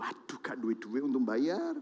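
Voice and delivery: imitating a debtor's quiet moan; mock complaining. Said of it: "Langsung saudara ngeluh".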